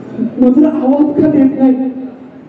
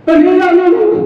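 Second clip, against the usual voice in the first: higher call, stretching the name रामू; 5 semitones higher, 3 dB louder, slower than usual. Acted. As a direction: call him from another room. Calling the absent servant. (उंच आवाजात लांब हाक)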